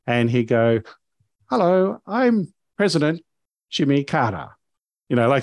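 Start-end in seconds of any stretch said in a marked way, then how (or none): 1.5-4.5 high, squeaky foreign-sounding voice, timid; a shy foreigner awkwardly offering his act; Foreign Man voice. Retold or imitated. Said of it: "a high, squeaky voice".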